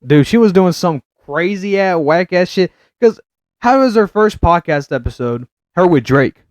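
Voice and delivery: high, loud astonished rant; incredulous. Real, not acted. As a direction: gossip in total disbelief. Animated disbelief rant.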